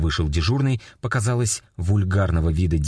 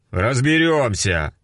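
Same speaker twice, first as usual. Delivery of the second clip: unflappable; 6 semitones higher, slower than usual. A narrator's reading. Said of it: "невозмутимо ответил сержант".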